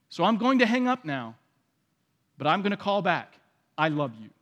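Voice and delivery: gently firm boundary with dad; calm, firm daughter. Retold or imitated. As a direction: daughter hanging up on an abusive dad, calm and kind. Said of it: "And the daughter says".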